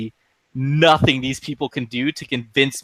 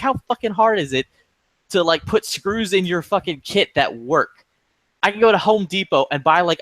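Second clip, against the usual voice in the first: retold hostility. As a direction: retell a customer's complaint with a touch of anger. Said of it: "Well, you sound hostile".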